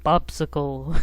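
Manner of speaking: name said low, tipping up at the end; deep Bopsicle voice. Retold or imitated. Trying out how Bopsicle says its name, deep voice. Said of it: "like, the deepest voice ever".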